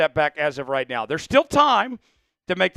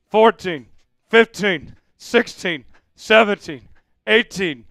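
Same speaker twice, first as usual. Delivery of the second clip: counting jumping jacks; 5 semitones higher, 10 dB louder, much slower than usual. Real, not acted. Counting out loud own jumping jacks.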